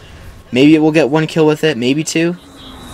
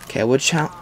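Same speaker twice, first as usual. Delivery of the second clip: normal talking voice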